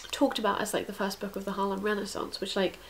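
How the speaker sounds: talking around a needle held in the mouth. Real, not acted. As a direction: speak with a needle between your lips. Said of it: "speaking with a needle in my mouth".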